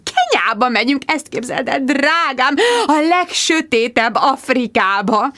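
breathless excited mother; gushing mother. Acted. Mother telling daughter about Kenya, lightly cooing.

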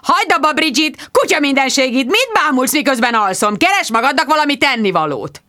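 mild mock yell. Mark scolding Bridget for staring while he sleeps, mild mock yell. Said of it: "és üvöltött".

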